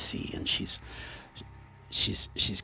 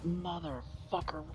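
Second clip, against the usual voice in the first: cursing Maxine; 10 semitones higher, 8 dB quieter than usual. Acted. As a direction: spit it out high and hurt. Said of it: "and she's like".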